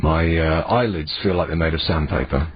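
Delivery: hoarse, sore-throat voice; rough like a dog's tongue; rasping voice. Real, not acted. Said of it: "have you got a bit of a rasping voice?".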